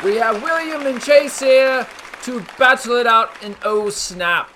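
a hammed-up British accent, lightly done; put-on British accent. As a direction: play a cheeky British host with a put-on British accent. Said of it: "That's a nice accent you have".

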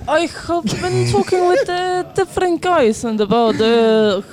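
put-on Russian accent, halting; English with a practised Russian accent. Shown as a demonstration. Explaining Russian accent practice to friends, Russian accent. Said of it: "how to do a Russian accent".

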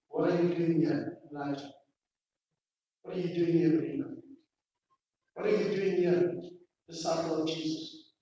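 soft, low voice of God questioning; still small voice. Acted. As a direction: ask quietly and low, each name falling away. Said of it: "heard the still small voice".

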